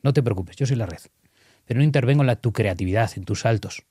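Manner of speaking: put-on be the safety net for a daring kid; an adult gently encouraging the trapeze artist; calm reassurance. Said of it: "le tienes que decir como adulto".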